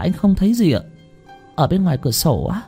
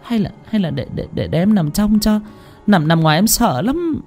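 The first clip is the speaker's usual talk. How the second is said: frightened plea; 7 semitones higher, 4 dB quieter than usual. A narrator's reading. Frightened wife begs to swap.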